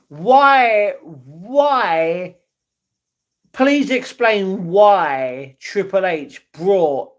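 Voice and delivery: half-joking outraged why; exasperated plea. Real, not acted. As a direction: beg for an explanation in disbelief. Exasperated wrestling rant.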